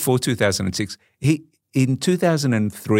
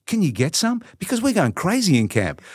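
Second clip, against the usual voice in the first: retold high-pitched begging; urgent pleading; 8 semitones higher than usual. Bored player in camp asks friend for tapes, pleading. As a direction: beg a favour, pitched well up.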